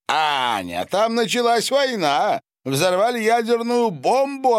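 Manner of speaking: very high, loud outburst; agitated exclamation. A narrator's reading. Count tells his wife why they fled, exclaiming loudly. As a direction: burst out with alarming news. Husband exclaims about the war.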